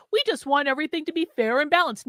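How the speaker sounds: mocking quote. Host scoffs at opponents claiming fairness, mocking. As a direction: parrot their claim derisively.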